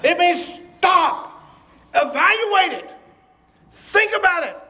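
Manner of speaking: ordinary delivery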